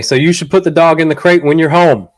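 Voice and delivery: normal talking voice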